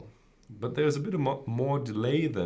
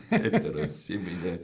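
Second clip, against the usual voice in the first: laughing. Real, not acted. Repeating the joke, laughing.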